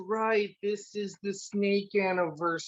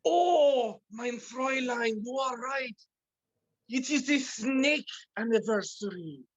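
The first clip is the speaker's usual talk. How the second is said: hammed-up German accent, apologetic husband; 3 semitones higher than usual. Husband apologizes to his wife, hammed-up German accent. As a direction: play a sorry husband with a thick German accent. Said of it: "a German accent or a culturally German".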